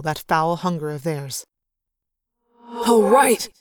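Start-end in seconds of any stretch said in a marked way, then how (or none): 2.7-3.5 excited higher cheer; young soldier cheering loudly; cried out. Acted. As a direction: whoop at the victory. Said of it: "Arbonne cried".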